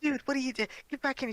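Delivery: high, loud yell of gamers; yelling teammates. Retold or imitated. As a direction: shout at her to get back in. Teammates yelling at her in game.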